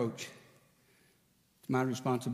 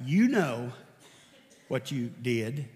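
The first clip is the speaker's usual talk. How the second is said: mock accusing; 2 semitones lower, 3 dB louder, much slower than usual. Mimicking wife's reproach.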